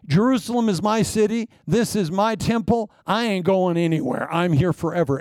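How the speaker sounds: a lightly voiced proud official, claiming the city as his; Shebna boasting. Preacher voicing Shebna's boast to the congregation, lightly acted. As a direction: lay on a touch of swagger, as if nothing could move him. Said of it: "See, Shebna is saying".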